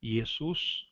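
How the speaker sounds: Iesus said with a clear I and hard S; Greek pronunciation. Shown as a demonstration. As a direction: read Iesus slowly, as Greek, rising at the end. (Iesus pronunciado à grega, com I inicial)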